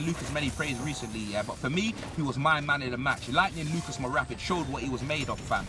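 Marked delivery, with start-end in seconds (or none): none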